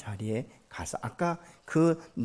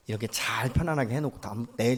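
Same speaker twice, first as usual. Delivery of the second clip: ordinary delivery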